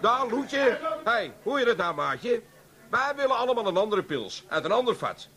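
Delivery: rowdy, pushy bar customer; bang the table for a new pils. Acted. Drunk customer demanding new beer.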